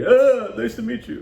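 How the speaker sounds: squeaky cracked voice jumping high; nervous voice crack on meeting a girl. Retold or imitated. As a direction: let the voice crack up high from nerves. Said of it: "and your voice cracked".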